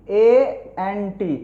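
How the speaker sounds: slow spelling. Shown as a demonstration. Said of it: "इसको पढ़ते हैं".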